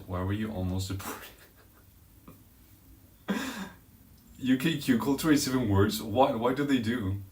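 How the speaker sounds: normal talking voice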